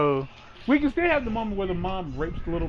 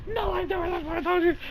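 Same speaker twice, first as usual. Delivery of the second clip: high furious yelling; angry shout; 13 semitones higher than usual. Retold or imitated. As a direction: scream it at him. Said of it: "really upset, like".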